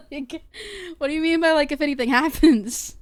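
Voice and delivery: high, loud disbelief; can't believe what they said; incredulous. Real, not acted. Incredulous about police advice.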